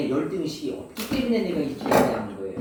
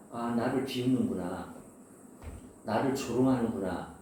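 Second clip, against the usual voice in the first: hurt inner voice; 7 semitones lower, 6 dB quieter than usual. Retold or imitated. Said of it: "이렇게 느껴요".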